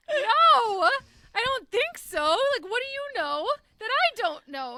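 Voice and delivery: high-pitched mock panic; mildly alarmed, retold. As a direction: act out a friend's startled denial. Acted alarmed denial from friend.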